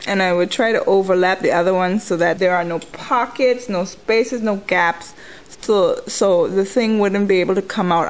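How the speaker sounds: talking while chewing gum; words round a wad of gum. Real, not acted. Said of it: "I'm chewing gum".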